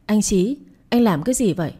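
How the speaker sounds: mild cry of pain and shock; wife lightly voiced, crying out at her husband. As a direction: call out to him, hurt and alarmed. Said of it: "Chị la lên".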